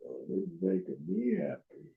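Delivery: soft, stress on me; mock contented. You and I telling friends, mock content. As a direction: claim it brightly, like you mean it. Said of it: "You and I".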